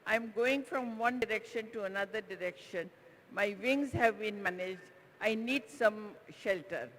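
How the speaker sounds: a hint of a small squeaky bird; tiny squeaky bird voice. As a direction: play a tiny bird asking politely for help. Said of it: "a very tiny, squeaky voice came out".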